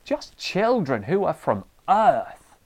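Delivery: high-pitched, exasperated tirade, slowing on the last lines; ranting parent. Pretend. Tired parent ranting at fighting children at night, high exasperated rant. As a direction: let the tired parent boil over at the kids. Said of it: "you burst into your children's room and say".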